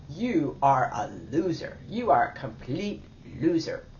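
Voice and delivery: lightly voiced harsh inner critic; critical inner voice. Shown as a demonstration. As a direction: sneer it like an inner critic, only a hint. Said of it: "quick little role playing".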